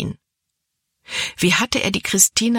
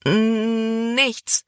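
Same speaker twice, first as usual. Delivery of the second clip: a stuttered, higher nothing; stammering; 6 semitones higher than usual. A narrator's reading. Libby caught by Caleb, stammering a frightened denial. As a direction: stumble over the first sound. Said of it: "stotterte Libby".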